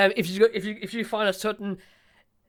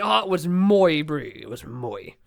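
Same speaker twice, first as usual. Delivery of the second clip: South African slang example; 4 semitones lower than usual. Shown as a demonstration. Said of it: "Or, like".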